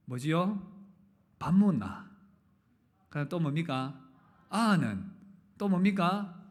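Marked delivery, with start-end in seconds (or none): 1.4-2.1 gruff, curt Gyeongsang dialect, a bit louder; Gyeongsang man's blunt phrase. Retold or imitated. Preacher imitating a terse Gyeongsang husband, curt dialect. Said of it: "경상도 남자의 세 마디". 4.5-5.1 gruff, curt Gyeongsang dialect, a bit louder; Gyeongsang man's blunt phrase. Retold or imitated. Preacher imitating a terse Gyeongsang husband, curt dialect. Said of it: "경상도 남자의 세 마디".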